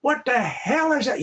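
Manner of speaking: put-on high, startled old codger gasp; old man on a bench. Old man on a bench gawking at a monster. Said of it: "some old man on a bench going".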